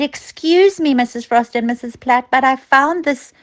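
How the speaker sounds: put-on a small boy asking his teachers politely; polite child asking. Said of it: "and he said".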